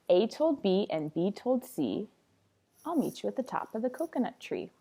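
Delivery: lilting picture-book read-aloud; story reading. Acted. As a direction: read it to little kids in a rhythmic singsong.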